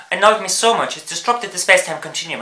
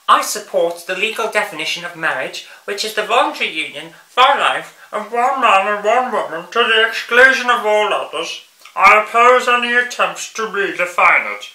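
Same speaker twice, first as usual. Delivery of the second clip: mocking whiny nasal-free sneer, raised pitch; 3 semitones higher than usual. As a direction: whine it out with contempt. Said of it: "I'm doing it in that whiny voice".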